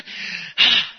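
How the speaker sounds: sharp, loud puff of breath; venting exhale. Acted. Acting out smashing glass to vent, venting exhale. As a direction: let out a loud burst of breath.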